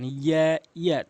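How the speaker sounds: ইয়া with a held vowel, tongue to palate; mid-tongue ya. Shown as a demonstration. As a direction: draw out ইয়া for one count. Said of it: "জিহ্বার মাঝখান থেকে উপরে তালুর".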